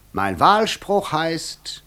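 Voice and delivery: very slow whisper; slow conspiratorial whisper. Acted. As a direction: draw it out in a secret whisper. Devil reveals his motto.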